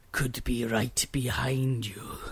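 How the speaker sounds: slow, soft whisper; mock creepy whisper. Friend pretending to lurk behind listener, in a whisper. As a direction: whisper it slowly and sneakily.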